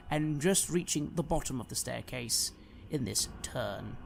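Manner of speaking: dramatic storyteller, swelling on the action and dropping away; theatrical fantasy narrator; game master scene setting. Acted. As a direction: narrate the fight with suspense.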